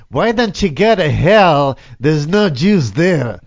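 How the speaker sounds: put-on slow old Jewish woman accent. Shown as a demonstration. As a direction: drag out the punchline in a Jewish accent. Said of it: "in the Jewish accent".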